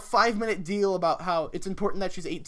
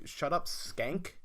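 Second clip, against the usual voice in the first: stern dad; 4 dB quieter, much slower than usual. Pretend. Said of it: "use your fucking dad power and say".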